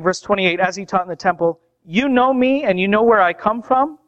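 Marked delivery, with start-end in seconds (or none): 1.8-4.0 higher-pitched, measured proclamation; preacher voicing Jesus' proclamation; proclaiming. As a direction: declare it deliberately, phrase by phrase with pauses. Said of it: "So Jesus proclaimed".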